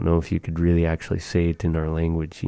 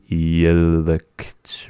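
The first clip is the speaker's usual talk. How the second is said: a hint of a deep old man, drawn out. Shown as a demonstration. Teacher saying I am sleepy, in a lightly voiced deep old man voice. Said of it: "deep voice".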